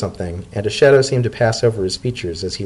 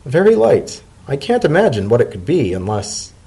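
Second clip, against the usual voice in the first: higher, curious character voice; Leafy's voice; 5 semitones higher than usual. Acted. Leafy weighs the present, curious and higher. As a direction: shake the parcel and wonder aloud.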